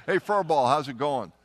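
loud teasing hail across the room; loud mocking greeting to a squadmate; mock call-out greeting. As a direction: call out to him like a buddy, loud. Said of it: "That's what they called him".

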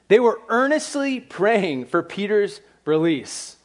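slow, weighty statement with the stress on "they"; slow emphasis. Shown as a demonstration. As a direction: lay each word down slowly to make the point. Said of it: "here's what's interesting".

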